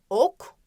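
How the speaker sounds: "Ok" with the O firmly stressed; stress on initial O. Shown as a demonstration. Teacher naming the picture for pupils, stressed O in "Ok". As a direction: lean on the O at the start of "Ok". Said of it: "O sesini başta vurgulayarak".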